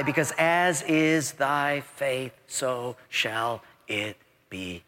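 slow, low, fading to a whisper; solemn hush. Real, not acted. Preacher gives scripture to congregation, solemn hush.

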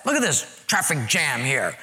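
high-pitched churchgoer's moan, building; upset complaining. Acted. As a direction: act out a petty, exasperated complaint. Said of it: "we'll get a little upset".

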